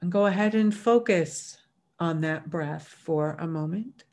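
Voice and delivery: unhurried meditation lead-in with long pauses; guided meditation. Real, not acted. Meditation leader settling a workshop group into breath, calm and unhurried. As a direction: ease them in gently, letting each phrase settle.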